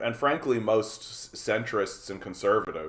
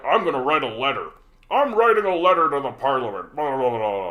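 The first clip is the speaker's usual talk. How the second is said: mock earnest citizen; 4 semitones higher, 6 dB louder than usual. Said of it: "when you go".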